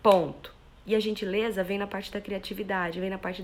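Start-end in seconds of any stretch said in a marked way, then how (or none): 0.0-0.5 louder, firm and final, closing on "ponto"; firm announcement. Shown as a demonstration. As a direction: state it as a fact, no room for debate. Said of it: "Eu tô sendo firme".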